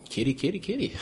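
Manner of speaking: calling a cat. Acted.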